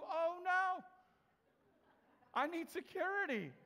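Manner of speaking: hammed-up frightened employee; mock panic. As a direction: fake a panicked cry for help. Mock panic after threat.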